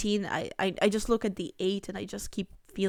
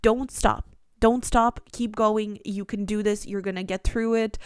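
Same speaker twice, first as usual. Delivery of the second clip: cheerleading pet; 4 dB louder than usual. Pretend. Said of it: "They're like".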